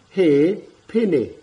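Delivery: He pene, said slowly and clearly; teacher's model word. Shown as a demonstration. Teacher modelling a word for children, clear and slow. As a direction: sound out "He pene" for learners. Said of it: "use simple words in this kupu hau".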